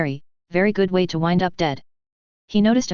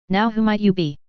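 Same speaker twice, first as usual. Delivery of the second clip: cheerful; 3 semitones higher than usual. A narrator's reading. Brenda cheerfully greets the stranger in the limo. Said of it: "Brenda asked cheerfully".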